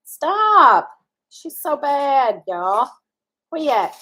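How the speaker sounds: high, loud "Stop!" at a pet; calling out to the cat. Real, not acted. Scolding pet knocking things over.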